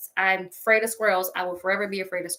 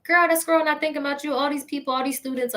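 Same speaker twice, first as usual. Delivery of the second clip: dismissive friend; 6 semitones higher, faster than usual. Retold or imitated. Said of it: "they're just like".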